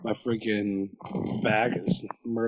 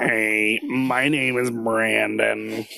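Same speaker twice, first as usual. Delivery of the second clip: podcast bravado; much slower than usual. Shown as a demonstration. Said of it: "get my bravado going".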